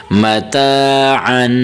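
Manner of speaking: متاعن drawn out very slowly with a full throaty ع; clear ain sound. Shown as a demonstration. Teacher models for students the throaty ع in متاعن. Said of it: "عین کی آواز دیں".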